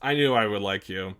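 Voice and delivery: thrilled to find a kindred spirit; excited. Acted. Character delighted Billy likes coffee too, excited cry.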